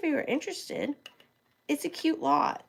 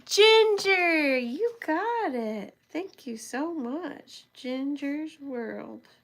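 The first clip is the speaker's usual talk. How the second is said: British accent; 3 semitones higher, much slower than usual. Real, not acted. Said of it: "this weird British accent".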